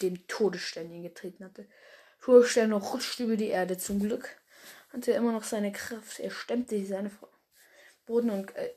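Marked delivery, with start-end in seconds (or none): 6.2-8.7 words blurred and swallowed; mumbled, unclear reading. Real, not acted. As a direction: slur through "Er stemmte seine" indistinctly. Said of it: "jetzt hab ich undeutlich gesprochen".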